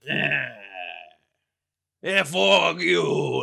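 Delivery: slow, drawn-out jeer; road rage demo. Shown as a demonstration. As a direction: sneer it at another driver. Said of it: "That's me driving".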